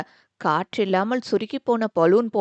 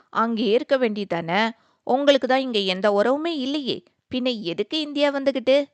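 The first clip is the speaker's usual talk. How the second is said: sarcastic retort. Acted. Sister mocking her brother's self-pity, sarcastic retort. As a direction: needle him for sulking. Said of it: "பதிலடி கொடுத்தாள்".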